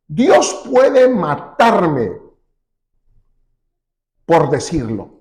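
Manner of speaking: slow, heavy reading with a long pause before the last words; slow weighty reading. Shown as a demonstration. Preacher reading Job's bold verse to the congregation, slow and weighty. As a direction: let each word of the verse land slowly. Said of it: "qué fuerte declaración".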